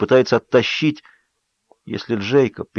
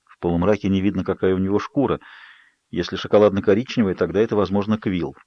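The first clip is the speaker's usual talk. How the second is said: ordinary delivery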